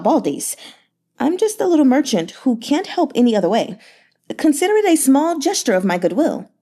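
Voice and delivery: a fawning, flattering merchant, lightly voiced; Yan Hezhu's voice. Merchant flattering the grieving governor, sugary and light.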